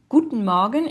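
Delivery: Guten Morgen with both E's swallowed; silent E's. Shown as a demonstration. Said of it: "on les prononce pas".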